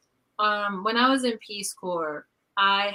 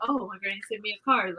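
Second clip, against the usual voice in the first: mock excited; 6 dB quieter, faster than usual. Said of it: "really excited about it".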